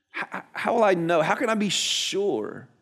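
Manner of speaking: halting start, then a slow, drawn-out question; mock uncertain, stretching the last words; acted doubtful pleading. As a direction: play a doubter asking for proof. Zechariah imagined still doubting the angel.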